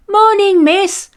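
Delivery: put-on high, bright kids calling; children's greeting. A narrator's reading. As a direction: sing out a cheerful morning greeting. Children's chatter.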